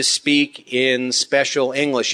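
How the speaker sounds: slow, measured words, spaced for learners; slow special English. Shown as a demonstration. Teacher urges slow talk for poor conditions, slow special English. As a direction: speak slowly as if to people learning English. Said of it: "they talked very slowly".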